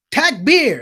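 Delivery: high, ringing call to the crowd; mock-yell it as a rallying call; imitated yell. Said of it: "he jumps up and he yells".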